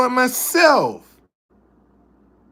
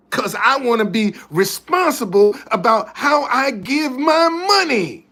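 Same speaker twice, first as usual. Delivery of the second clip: building mock rant; 3 semitones higher than usual. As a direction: argue back harder and harder until you shout the last words. Acted own reply, quarrel.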